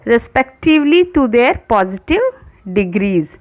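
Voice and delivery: slow, careful rule reading; slow dictation voice. Acted. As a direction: read the rule out slowly for students to copy. Reads the rule aloud slowly.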